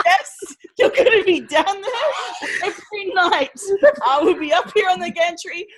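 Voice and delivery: loud, high, commanding mum; bossy mum voice. Retold or imitated. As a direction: bark orders like a drill mum. Mum voiced in retold story.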